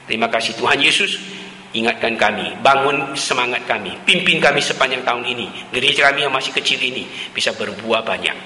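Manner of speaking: earnest, steady prayer voice; closing prayer. Acted. Preacher leads the congregation in prayer, earnest. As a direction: pray for the church, sincere and measured.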